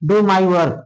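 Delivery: "do my work" as one group after a pause; separate second phrase. Shown as a demonstration. Teacher showing the second part to read, "do my work" grouped. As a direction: start afresh on "do", falling to "work". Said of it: "ऐसे पढ़ना है".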